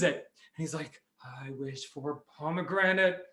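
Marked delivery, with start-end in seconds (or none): 1.2-3.2 careful wishing. Acted. Neighbour makes a magic wish.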